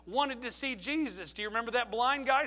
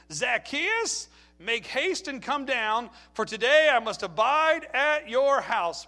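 calling out; 3 semitones higher, 6 dB louder, slower than usual. Acted. Reading Jesus's call.

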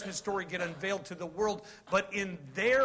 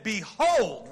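announcing call; 6 dB louder than usual. Retold or imitated. Quoting John's announcement.

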